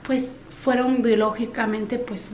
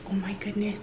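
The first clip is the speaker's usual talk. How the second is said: softer whispered exasperation; 8 dB quieter than usual. Real, not acted. Overwhelmed mom sighs to viewers, softer whispered. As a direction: breathe it out, spent.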